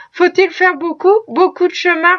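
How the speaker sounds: a lively rush of sudden hope; mother eager to know the distance ahead; with eagerness. Acted. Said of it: "reprit la femme avec vivacité".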